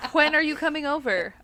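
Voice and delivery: lightly voiced grandma, hwen are you coming over; grandma's breathy when. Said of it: "My grandma puts H's in W H words".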